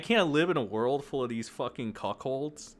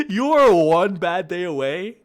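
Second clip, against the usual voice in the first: louder, higher shouted threat; 6 semitones higher, 10 dB louder than usual. Real, not acted. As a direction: scream the warning.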